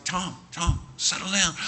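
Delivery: acted soothing of a panicked man; calming him down. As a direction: talk someone down from hysteria. Mike calms screaming Tom.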